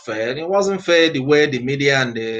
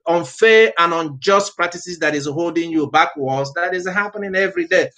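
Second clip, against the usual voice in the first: raised, ringing sermon voice pushing every phrase; fiery preaching; 3 semitones higher than usual. Acted. Pastor urging his listeners to purge the country, preaching at full force. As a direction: preach it out to the congregation.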